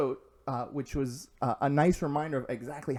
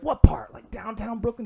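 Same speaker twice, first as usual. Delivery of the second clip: high, loud questioning; surprised question; 9 semitones higher, 7 dB louder than usual. Retold or imitated. Gym guy asking where in Brooklyn, surprised. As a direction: press for details, surprised.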